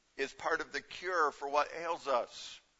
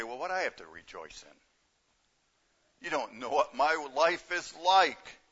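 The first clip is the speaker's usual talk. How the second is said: doubting listener. Retold or imitated. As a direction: play the skeptic in the pew, a hint of grumbling. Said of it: "Some of you might say".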